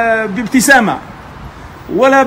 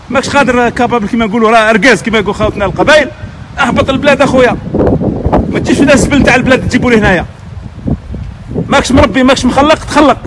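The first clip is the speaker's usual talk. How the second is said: agitated scolding; 3 semitones higher than usual. Real, not acted. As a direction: lecture them hotly, voice climbing. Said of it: "واسمحوا لنا على الانفعال". (توبيخ حاد ومنفعل)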